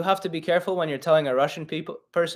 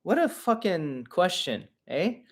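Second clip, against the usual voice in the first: disgusted aside; 2 semitones higher, 5 dB quieter than usual. Real, not acted. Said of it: "still irks me".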